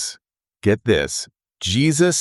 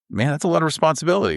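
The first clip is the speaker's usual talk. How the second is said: quoting Ray; 9 semitones higher, faster than usual. Retold or imitated. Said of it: "Ray, very thoughtfully, was like".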